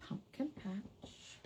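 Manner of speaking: whispered name, slow. Real, not acted. Crafter whispering a stamp name slowly. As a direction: read it under your breath.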